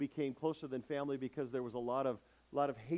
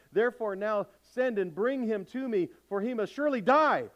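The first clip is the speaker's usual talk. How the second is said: furious shout growing louder and higher; Saul's anger; 6 semitones higher, 6 dB louder than usual. Acted. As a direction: rage at his son until it explodes. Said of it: "And Saul's anger burned against Jonathan".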